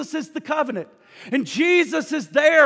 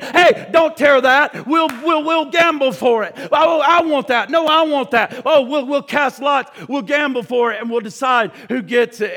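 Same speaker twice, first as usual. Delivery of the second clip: rowdy soldiers grabbing at a robe, raised voices; mock soldier squabble, a bit louder; squabbling soldiers; 4 dB louder than usual. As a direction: play the greedy soldiers bickering over loot. Soldiers squabble over Jesus' garments.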